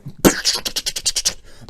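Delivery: rapid-fire clicking gun noise; imitated rapid gunfire. Host acting out the mag dump, imitated gunfire. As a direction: mimic fast shots with your mouth. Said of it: "Just going".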